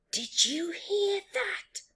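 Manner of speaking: high, slow amazed hush; thrilled, can't believe it; high, slow astonished Rhino; excited exclamation. Acted. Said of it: "exclaimed Rhino".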